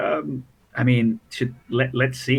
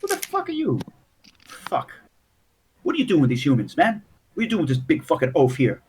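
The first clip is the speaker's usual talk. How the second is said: lightly voiced halfling gangster; mildly aggressive halfling questioning; suspicious halfling; 3 semitones higher than usual. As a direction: challenge newcomers, a hint of a put-on gangster. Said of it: "They're like".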